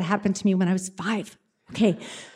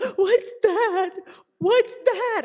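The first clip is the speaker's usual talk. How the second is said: high, crying panic; a sobbing friend asking in fear; tearful panic; 11 semitones higher, much slower than usual. Retold or imitated. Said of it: "like, sobbing".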